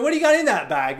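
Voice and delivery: very high, loud mock question; incredulous driver. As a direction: pitch it way up in disbelief. Driver questions the small bag.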